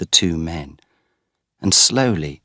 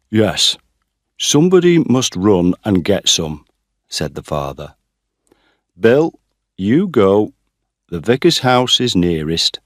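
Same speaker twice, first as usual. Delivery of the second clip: louder, commanding; father sending Bill for water, louder; urgent orders; 2 semitones higher, 7 dB louder than usual. A narrator's reading. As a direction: send him off quickly.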